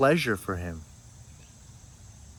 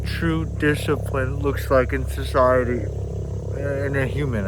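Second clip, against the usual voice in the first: raised voice over rotor noise; yelling over helicopter; 3 semitones higher, 4 dB louder than usual. Real, not acted. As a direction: push the voice over loud background noise. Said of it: "excuse the helicopter".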